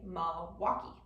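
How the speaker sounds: Milwaukee without the L in the first syllable; Wisconsin Milwaukee. Shown as a demonstration. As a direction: drop the L, "Mwaukee". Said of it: "rather than saying Milwaukee ... typically say".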